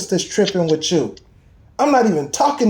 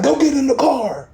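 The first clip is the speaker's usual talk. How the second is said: higher-pitched bossy "Go get in the car"; mock loud command; 6 semitones higher than usual. Showing how God's voice did not sound, mock bossy command. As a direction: bark out "Go get in the car" like an order, pitched high. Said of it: "It wasn't no, like".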